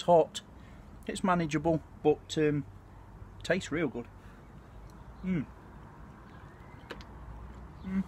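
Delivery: humming through food; muffled closed-lip murmur; mouth full, chewing. Real, not acted. Seen 2: spoon enters mouth at 0.1, then closed-mouth chewing while humming.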